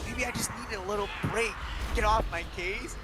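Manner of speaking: high, put-on dismissive voice; defensive brush-off. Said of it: "And he's like".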